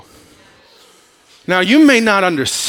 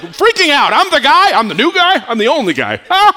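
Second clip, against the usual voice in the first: much higher, louder, hammed-up drunken bravado; mock drunk swagger, fading at the end; drunk Noah; 10 semitones higher, 5 dB louder than usual. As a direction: play the tipsy boastful guy for laughs. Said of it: "And he was like".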